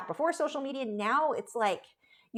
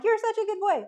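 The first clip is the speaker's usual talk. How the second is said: put-on higher sing-song good-boy praise; imitating dog owners; 12 semitones higher, 5 dB louder than usual. Normal people praising their dog, higher sing-song. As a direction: mimic the usual pet praise. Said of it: "normal people are like".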